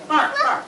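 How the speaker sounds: high yappy barks; playful barking sound; dog bark imitation. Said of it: "What does it sound like when a dog barks?".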